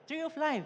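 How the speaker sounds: LIFE lifted high and sung out; echoed phrase. Shown as a demonstration. Pastor echoing the verse to the congregation, high and ringing. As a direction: repeat "Tree of life" high, leaning on "life". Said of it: "The soothing tongue is a tree of life".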